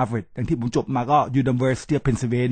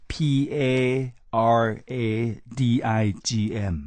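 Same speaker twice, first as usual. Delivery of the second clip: spelled letter by letter; 3 semitones lower than usual. Shown as a demonstration. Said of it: "คำที่ Stephen Covey ใช้นะครับ".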